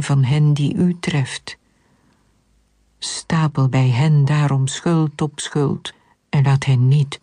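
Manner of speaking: measured, solemn psalm recitation with pauses between phrases; scripture reading. A narrator's reading. A worshipper reciting a psalm to God, solemn measured reading. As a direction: read it as a plea, phrase by phrase. Reads a psalm aloud throughout.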